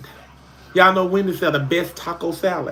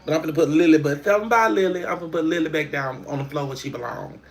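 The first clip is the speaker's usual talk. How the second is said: ordinary delivery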